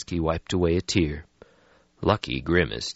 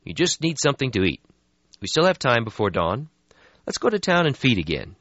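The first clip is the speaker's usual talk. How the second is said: brisk, a bit higher; young vampire voice; 5 semitones higher than usual. Acted. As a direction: brush off the gloom. Lucky voiced in story.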